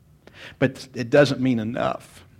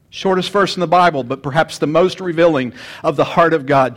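louder, proclaiming the verse; fuller second reading. Shown as a demonstration. Pastor restating the verse boldly to the congregation. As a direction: lift it up to the whole room. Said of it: "repeats line louder".

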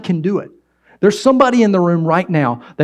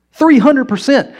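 higher, louder and slow; emphatic repeat; 8 semitones higher, 4 dB louder than usual. Real, not acted. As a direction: hammer home three hundred percent. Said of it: "repeats statistic for emphasis".

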